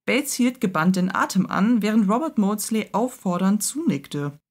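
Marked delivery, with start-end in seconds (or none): none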